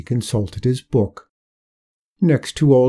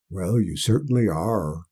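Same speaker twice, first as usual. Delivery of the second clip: low looming threat; 3 semitones lower than usual. Acted. Death voiced by narrator.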